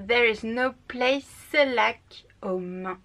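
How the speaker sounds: slow, careful English with a French accent; a French reader sounding out an English line. Real, not acted. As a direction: read the quote slowly in French-accented English. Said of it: "désolée pour mon accent anglais".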